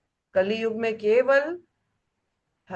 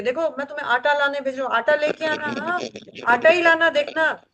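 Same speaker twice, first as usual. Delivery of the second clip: fast, higher nagging about the flour; sending a fool to market, insistent reminding; insistent errand instructions; 3 semitones higher than usual. Retold or imitated. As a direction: drill it into a dim errand boy. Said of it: "बार बार जोर देकर बोलेंगे".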